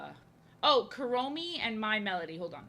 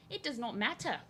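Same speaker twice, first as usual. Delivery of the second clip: higher mock-accented repeat, dropping the R in "matter"; mock accent, "matter" said as "mattah"; playful put-on accent; 4 semitones higher than usual. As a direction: put on a higher non-rhotic accent for fun.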